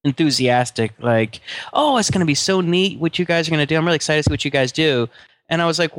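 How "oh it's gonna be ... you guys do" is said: fake enthusiasm. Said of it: "she wasn't real enthusiastic".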